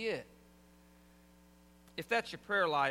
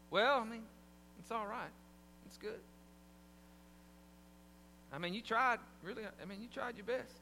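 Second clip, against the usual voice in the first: trailing, faint praise, fading softer; backhanded compliment; 4 dB quieter than usual. Retold or imitated. Husband gives wife faint praise for her cooking, trailing off. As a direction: lukewarm "I mean, you tried". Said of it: "What kind of compliment is that?".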